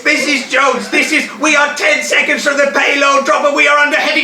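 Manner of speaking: urgent shout. Acted. Urgent shouting over battle.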